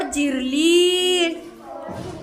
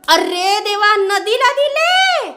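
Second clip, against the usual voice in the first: shocked mother; 3 semitones higher than usual. Acted.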